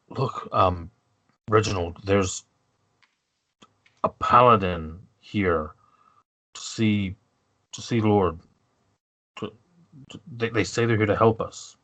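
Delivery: lightly voiced guard, halting; hesitant guard. Guard explaining a paladin visitor to his colleague, lightly halting. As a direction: explain it awkwardly, with pauses.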